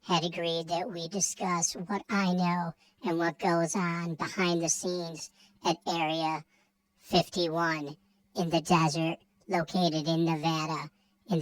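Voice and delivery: helium-sounding alien voice. Acted. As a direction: speak like a freak alien. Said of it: "did you inhale the helium before you come to this show? Because you sounded like a, like a freak alien".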